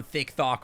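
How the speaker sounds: TikTok said as "thick thock" with TH; deadpan thick thock, TH replacing each T; softened T. Shown as a demonstration. Streamer joking they go on TikTok, lisped as thick thock. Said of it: "How do you make a T less sharp?".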